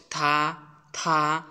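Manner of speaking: "থা" drawn out with a push of breath; aspirated with pressure. Shown as a demonstration. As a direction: push air out on each "থা". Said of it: "একটু pressure দিয়ে উচ্চারণ করব".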